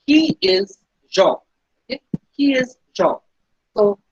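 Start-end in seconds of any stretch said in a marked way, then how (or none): 0.1-1.4 slow and deliberate. Shown as a demonstration. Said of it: "teacher slowing for learners".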